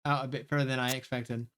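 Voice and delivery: lightly voiced bickering students; character argument read aloud. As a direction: read the rivals' spat with a touch of edge. Streamer voices rival characters arguing.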